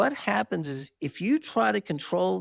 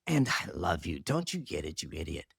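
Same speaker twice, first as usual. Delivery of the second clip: tender voice of Jesus; 6 semitones lower than usual. Retold or imitated. Jesus reassures the speaker of his love, low and tender. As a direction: hold him close with each word.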